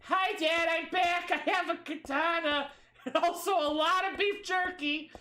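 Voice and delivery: bright high greeting; cheery girl voice. Pretend. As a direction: call out happily to dad. Voicing Heather coming home.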